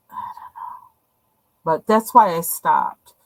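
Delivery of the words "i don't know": whispered to herself; whispering. Real, not acted. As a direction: breathe it out under your breath. Repeat muttered under breath.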